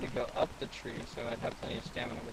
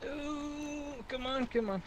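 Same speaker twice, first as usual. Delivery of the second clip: high tense come on; tense urging; 12 semitones higher, much slower than usual. Real, not acted. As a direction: urge the jump on, much higher. Tense jump in game.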